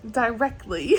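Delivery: lightly imitated fancy British accent; a touch of matter-of-fact mock British. Vlogger echoing favourite drama line, fancy British accent. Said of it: "just so matter of fact".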